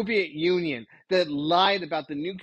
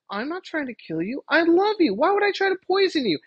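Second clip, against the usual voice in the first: mock wife; 9 semitones higher, 3 dB louder than usual. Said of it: "And she goes".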